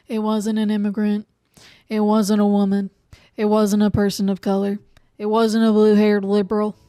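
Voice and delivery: rising emphatic rant; building emphatic list. Real, not acted. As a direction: hammer each item home.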